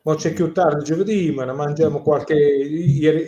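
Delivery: a lightly voiced Bari dialect, said in a natural way; Barese dialect. Shown as a demonstration. Asked to say something in Barese, he answers in a relaxed Bari dialect. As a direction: speaks a few lines of Barese, warmly. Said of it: "in dialect of Bari".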